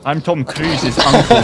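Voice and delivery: slow, put-on Connery-like accent; Sean Connery. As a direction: draw it out in a Connery-style accent. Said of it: "You sound like Sean Connery".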